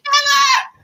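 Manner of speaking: high, loud defiant Never; a shrill refusal; shouted Never. Retold or imitated. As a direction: yell it back, refusing. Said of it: "I'm like".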